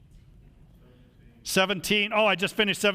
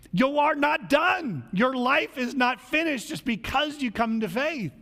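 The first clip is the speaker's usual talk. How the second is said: preaching emphasis; 5 semitones higher than usual. Real, not acted. Preacher exhorting congregation.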